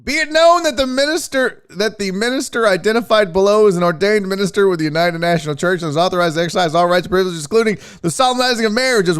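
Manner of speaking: high-pitched ceremonial reading of a certificate; official proclamation. Acted. Reads minister certificate aloud, mock solemn.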